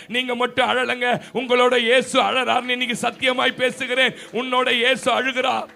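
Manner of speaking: loud, earnest preaching; loud earnest proclamation. Real, not acted. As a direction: swear it out to the whole church. Preacher swears it to congregation. (உரத்த உறுதியான பிரசங்கம்)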